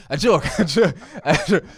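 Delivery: high, loud laughing "a joke"; giggling, playful take-back. Real, not acted. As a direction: laugh while brushing it off. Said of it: "We can move along".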